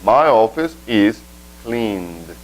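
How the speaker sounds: slow, careful passive answer; teacher modeling slowly. Shown as a demonstration. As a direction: draw it out for learners.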